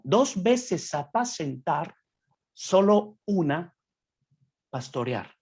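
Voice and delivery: each word weighed slowly; slow emphatic reading. Shown as a demonstration. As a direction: stress the contrast, slowly. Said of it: "entonces quiere decir que es diferente". (lectura lenta y enfática)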